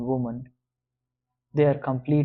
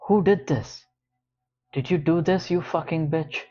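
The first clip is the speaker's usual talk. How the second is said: raised, angry accusing voice; angry demand; 4 semitones higher than usual. Acted. George demanding who made the envelope, angry and raised. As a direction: fling the question at her like an accusation. George confronting her in a rage.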